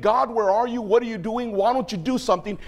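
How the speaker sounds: high, insistent string of questions; prophet questioning God. Retold or imitated. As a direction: demand answers from God in a preacher's voice. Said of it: "how did he go from saying".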